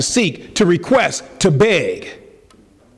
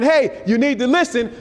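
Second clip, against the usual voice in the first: higher-pitched, insistent acted call; crying out; 4 semitones higher than usual. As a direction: urge them to pay attention. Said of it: "Wisdom's crying".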